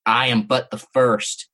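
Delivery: slow, low, menacing creature line; hissing creature. Acted. A hint of the toilet creature hissing at the narrator. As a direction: let the monster's words crawl out slowly. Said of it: "it hissed".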